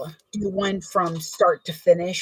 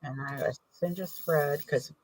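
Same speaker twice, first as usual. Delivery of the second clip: talking around a glue cap; mouth full; 3 dB louder than usual. Real, not acted. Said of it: "I've got the cap in my mouth".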